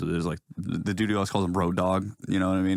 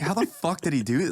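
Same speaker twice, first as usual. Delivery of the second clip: mock amazement; 8 semitones higher than usual.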